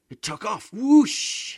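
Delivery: put-on high, loud whoosh of a boy; excited child. A narrator's reading. Antonello telling how the rocket took off, high and loud. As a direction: make the rocket sound, thrilled. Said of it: "hissed Antonello".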